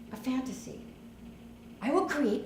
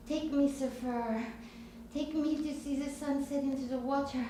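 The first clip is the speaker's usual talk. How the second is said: put-on French accent; 3 semitones higher, 5 dB quieter than usual. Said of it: "I was gonna be Paulette from France".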